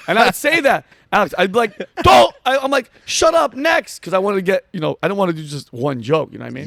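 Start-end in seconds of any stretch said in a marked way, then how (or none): 2.0-2.3 sharp, high shout to cut off the laughs; shouted command. Retold or imitated. Cutting off the audience's laughter. 3.1-4.0 high-pitched, hurried shutdown; impatient command. Retold or imitated. Hurrying a laughing audience along.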